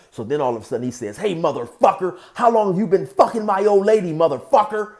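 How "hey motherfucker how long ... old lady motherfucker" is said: loud, raised angry demand; acted jealous fury; getting madder. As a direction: hype yourself up and demand an answer. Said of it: "hyping himself up and making himself madder and".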